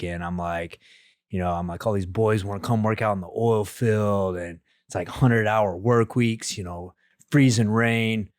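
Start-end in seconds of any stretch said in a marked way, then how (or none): 1.8-8.3 slow, thick West Texas drawl; West Texas accent. Retold or imitated. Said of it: "my West Texas accent, really thick".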